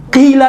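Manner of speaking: قیل with a light qaf and clean "ee"; no heaviness on the start of قیل; thin qaf. Shown as a demonstration. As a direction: keep قیل thin, "qeel". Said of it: "یہاں پر قیل نہیں کہیں گے".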